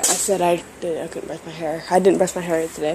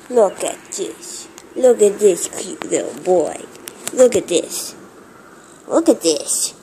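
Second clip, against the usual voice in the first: gushing; 8 dB louder, slower than usual. Real, not acted. Gushing over the cat.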